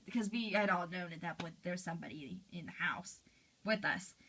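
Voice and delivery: breathy whisper of a scared secret; hushed whisper. Retold or imitated. Telling friends about the intruder, in a whisper. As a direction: drop to a whisper, someone's in the house.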